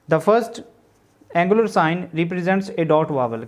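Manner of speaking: word by word, spelled out slowly for notes; slow classroom dictation of a definition. Shown as a demonstration. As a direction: dictate it so students can write along.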